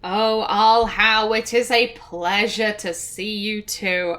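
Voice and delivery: slow, lightly acted formal courtesy; polite but uninterested. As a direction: greet slowly with mild, dutiful politeness. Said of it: "she's going to be polite".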